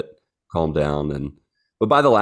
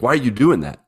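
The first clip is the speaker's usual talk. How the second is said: lightly voiced puzzled dog, pitched up; mock protest on a dog's behalf; indignant dog voice; 6 semitones higher than usual. Older dog objects to the puppy licking her, mock indignant. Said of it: "Rayla's, like, backing off".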